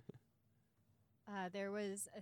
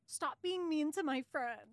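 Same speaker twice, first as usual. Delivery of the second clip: mock kid voice; 8 semitones higher, 6 dB louder than usual. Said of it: "is like".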